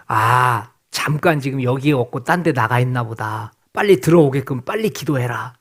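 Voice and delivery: stretched goading call sinking into mock-wondering asides; mocking taunt. Elijah taunts Baal's prophets about their silent god, mocking. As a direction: taunt them with feigned puzzlement over their absent god. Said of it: "완벽하게 지금 조롱을 하고 있어요".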